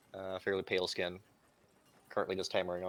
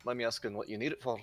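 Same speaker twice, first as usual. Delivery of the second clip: put-on Irish accent; 3 semitones higher than usual. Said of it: "sorry for my Irish accent".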